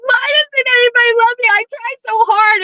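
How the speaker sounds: high, hammed-up tearful plea; mock sobbing. Retelling the movie, Meredith sobbing on the kitchen floor. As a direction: whine it out like a heroine in tears.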